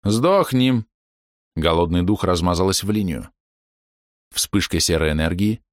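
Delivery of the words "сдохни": furious scream. Acted. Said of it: "кричащей с искажённым от злобы лицом".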